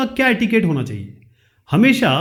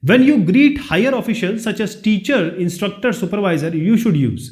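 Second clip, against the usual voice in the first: slow, careful reading of the quiz sentence; slow question reading; 2 semitones higher, much slower than usual. Shown as a demonstration. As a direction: read each word out slowly for the class. Reads question slowly. (धीरे-धीरे प्रश्न पढ़ना)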